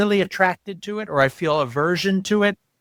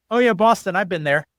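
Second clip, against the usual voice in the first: higher, fast hijacking the story; self-absorbed interrupter; 5 semitones higher, faster than usual. Retold or imitated. Relative hijacking the travel story, self-absorbed interruption. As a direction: grab the topic back to yourself. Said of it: "instead they're like".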